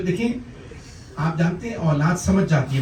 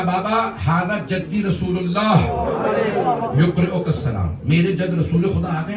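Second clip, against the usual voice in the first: high, impassioned recitation; dying son's call; 5 semitones higher than usual. Acted. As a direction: call out to a father in raised pitch. Dying son calls to father.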